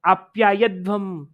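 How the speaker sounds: आप्या यध्वम said slowly, यध्वम held at the end; drawn-out phrasing. Shown as a demonstration. Teacher showing how the mantra should be phrased, slow and drawn out. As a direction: stretch आप्या यध्वम as one measured phrase. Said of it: "ऐसे करके वाक्य बोलना था".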